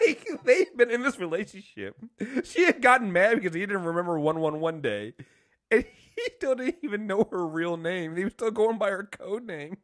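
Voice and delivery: high-pitched, incredulous complaint; worked-up indignation on someone else's behalf; indignant. Real, not acted. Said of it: "I was all indignant".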